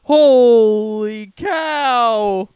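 slow, loud stunned cartoon wow; cartoon shock. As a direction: drag it out, astonished. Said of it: "your friend just got hit by a car".

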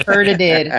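laughing through the word. Real, not acted. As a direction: giggle out the mocking repeat. Mocking a friend's "hurted.

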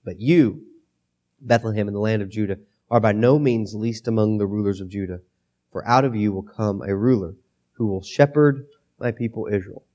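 a gruff low scripture read; low rough voice. Shown as a demonstration. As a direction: let the voice sink low and rough. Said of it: "if I get to talking like this".

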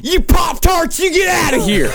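shouted southern accent. Shown as a demonstration. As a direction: yell it like an angry southern local. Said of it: "It's all about the attitude".

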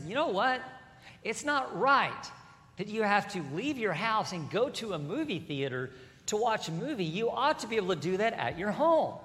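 a hint of a whiny complainer; mock complainer. Preacher voices a grumbler demanding a remote.

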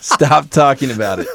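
"Stop" said through a laugh. Real, not acted. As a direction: plead "Stop talking about it" while laughing. Repeats while laughing.

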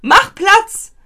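loud, high-pitched dog commands; calling a dog. Acted. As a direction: shout short orders as if to a dog. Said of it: "den hätte man so gerufen".

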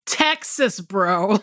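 mock objection, starting high; retold protest. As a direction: correct him in exasperation, dropping at the end. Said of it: "And I'm like".

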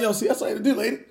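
retold heated yell. Father warning the principal not to bark at him, heated yell. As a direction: snap the warning back at her.

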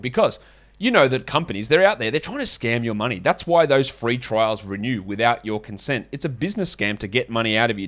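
ad read in a hammed-up French accent; light French accent put on for the ad; mock French accent. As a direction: read the sponsor spot like a cheesy Frenchman. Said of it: "French accent offends any French people".

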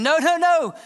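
mock protest. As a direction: cut in with a shouted no, no, no. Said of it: "some are saying".

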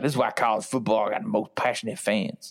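a hint of a Louisiana accent, mocking fans' pride. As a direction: voice a Louisiana fan in a gentle Southern accent. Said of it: "that particular accent came from, like, Charles, Louisiana".

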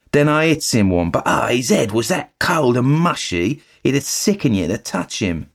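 chatty eager bellboy reporting the news; Cockney bellboy. Acted. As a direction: Thomas the bellboy gossiping to his master. Thomas tells his story.

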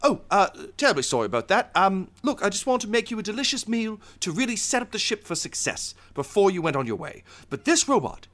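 high-pitched, polite chef explaining himself; flustered apologetic chef. Acted. Chef to the crew walking in, flustered high apology. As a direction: apologize high and fussily, then complain.

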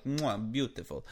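slow, hammed-up Italian-accented chef's kiss; mock Italian accent. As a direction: savour it in a put-on Italian accent. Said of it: "I suppose that was an Italian accent".

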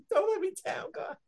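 impassioned imitation of a praying mother; imploring. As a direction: beg God with the voice pushed right up. Repeats the mother's plea.

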